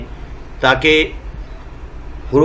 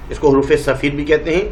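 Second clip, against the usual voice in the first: normal talking voice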